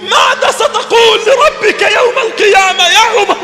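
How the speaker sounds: fervent, rising sermon plea; preaching lament. Acted. Preacher lamenting to Umar, fervent and building. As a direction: cry out to Umar like a grieving preacher.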